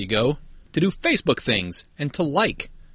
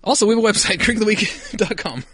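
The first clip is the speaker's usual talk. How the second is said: high-pitched put-on English accent; 8 semitones higher than usual. Co-host plugging the podcast website, high English accent. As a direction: carry the mock English voice into the plug. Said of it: "doing this in an English accent".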